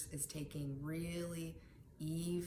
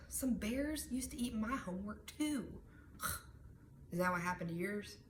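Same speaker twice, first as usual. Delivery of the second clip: playful joke; 4 semitones higher than usual. Pretend. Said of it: "make him laugh a little bit".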